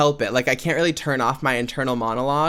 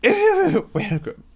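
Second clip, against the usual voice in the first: laughing welcome; 4 dB louder than usual. Real, not acted. High laughing welcome after intro.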